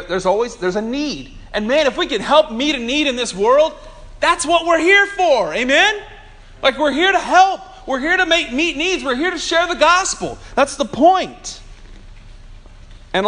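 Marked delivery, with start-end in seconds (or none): 1.5-11.6 preaching at full force. Acted. Preaching climax.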